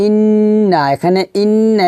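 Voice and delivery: "ইন্না" with the double n held in the nose; ghunnah. Shown as a demonstration. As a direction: hum through the n of "ইন্না". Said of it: "গুণনা করব". ("ইন্না"-র নুনে গুন্নাহ করে)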